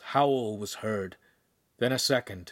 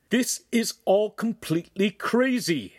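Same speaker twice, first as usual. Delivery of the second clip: higher, louder outburst; shouting; 10 semitones higher, 4 dB louder than usual. Acted. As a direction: burst out in angry frustration. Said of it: "Handsome shouted".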